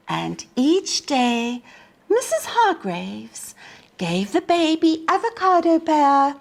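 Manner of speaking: put-on lively storybook narration for young listeners; reading to children. A narrator's reading. Teacher reading a picture book to children, lively storybook voice. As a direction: read it like story time on the rug.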